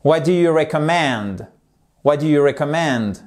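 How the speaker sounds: "recommend" with main stress on MEND; small stress on REC, big one on MEND in "recommend"; stress on final syllable. Shown as a demonstration. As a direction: land firmly on the end of "recommend". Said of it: "on en a un gros ici".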